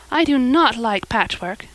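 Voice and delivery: mildly mournful complaint; a touch of girlish gloom; doleful. Acted. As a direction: grumble sorrowfully about a chore. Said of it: "said Anne dolefully".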